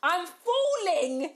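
high, loud, drawn-out wail; slow motion. Retold or imitated. Friend re-enacting her fall off the bed, slow-motion wail.

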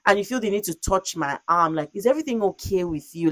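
indignant rant, pitched somewhat up; livid retelling. Retold or imitated. Woman retelling her rant at the man who touched her arm, livid. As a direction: re-enact telling off someone who grabbed you. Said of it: "I was so livid".

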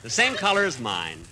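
slow, tender admiration; sentimental. Acted. Husband-like shopper doting on a turkey's eyes, sentimental. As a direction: gaze fondly and take it slowly. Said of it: "stop being so sentimental".

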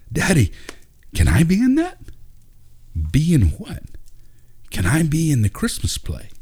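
put-on high, eager child voice; young boy. A narrator's reading. Ben tugging his dad's arm, eager high child voice. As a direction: ask like an excited little boy.

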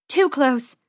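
stuffy nose, sniffling; sniffly voice. Acted. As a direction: say it through a sniffle. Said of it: "still sniffling and sneezing".

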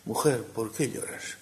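soft, slow and gentle; a tender, hushed question. Acted. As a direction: ask it softly, like comforting a grieving woman. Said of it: "con qué cariño pronunciaría el hortelano".

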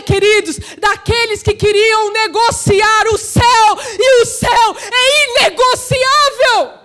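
impassioned pulpit declamation; full-force preaching. Real, not acted. Preacher decrying a church that negotiates heaven, fervent and forceful. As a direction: hammer each phrase, building to a shouted climax.

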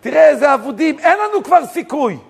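high-pitched mock lament of the hopeless; retold despairing wail. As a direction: plead it high, imitating people in despair. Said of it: "מתחילים לבכות".

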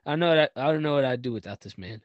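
emotional, fast, cracking voice. Real, not acted. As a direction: rush it as the voice breaks. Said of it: "My voice cracking".

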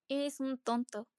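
slow words through clenched teeth; through gritted teeth. Acted. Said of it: "exclamé entre dientes".

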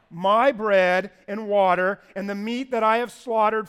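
My punched out loud; stress on My. Shown as a demonstration. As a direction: lean hard on My, loud reading. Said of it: "this is a key word".

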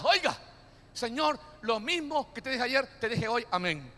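soft, lazy repeated prayer; mock a churchgoer praying out of habit; half-hearted mumbled prayer; bored rote prayer.

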